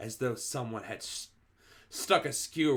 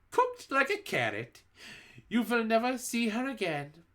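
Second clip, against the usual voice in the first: gloating witch; 11 semitones higher, 3 dB louder than usual. A narrator's reading. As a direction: relish the kill.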